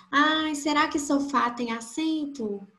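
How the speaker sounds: wondering student. Acted. Teacher voices a student unsure about the accent, mildly wondering.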